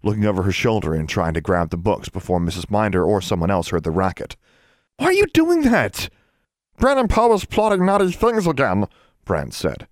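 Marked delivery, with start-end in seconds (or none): 5.0-8.9 very high, frantic elf voice; high-pitched squealing little creature; wailing elf. A narrator's reading. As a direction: cry out like a guilt-stricken elf. Elves beating themselves with books.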